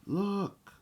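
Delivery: high, loud excited cry; child's shout. A narrator's reading. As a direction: shout it out to point something out. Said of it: "shouted one of the children".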